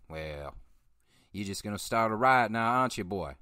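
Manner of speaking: a lightly voiced small-town sheriff, drawling warning; hint of a southern lawman scolding a newcomer; imitating the sheriff. Host imitating Sheriff Billy Carter warning the stranger, lightly drawled. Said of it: "that's how he talked too".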